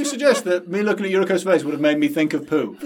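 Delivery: laughing fake indignation; playfully offended protest; mock outrage. Real, not acted.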